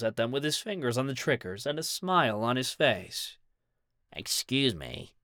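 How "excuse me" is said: low, slow and soft; a small voice, said slowly. A narrator's reading. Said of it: "spoke a low voice".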